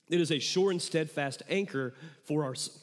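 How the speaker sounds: choked, struggling to get it out; choking up. Real, not acted. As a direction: voice catching in the throat. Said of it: "choking on that".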